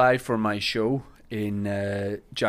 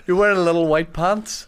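Sharon Stone impression; 2 semitones higher than usual. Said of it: "That was Sharon Stone and Basic Instinct".

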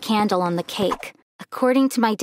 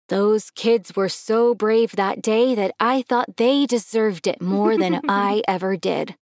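humble; slower than usual. Acted. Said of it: "he humbly replied".

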